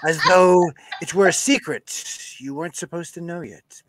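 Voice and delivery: Tom Mountain voice. Acted. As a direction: read it like a smooth-talking guy. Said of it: "back in".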